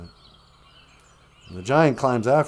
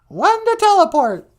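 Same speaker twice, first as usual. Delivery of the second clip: Captain Picard command; 11 semitones higher, 4 dB louder than usual. Pretend. Star Trek captain order.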